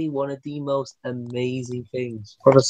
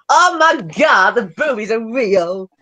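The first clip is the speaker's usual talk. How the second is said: higher, slow hammed-up gasp of awe; imitating Chris; 7 semitones higher, slower than usual. Story of Chris gasping at the computer, slow mock awe. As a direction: stretch out Chris's stunned discovery. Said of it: "all you hear is Chris going".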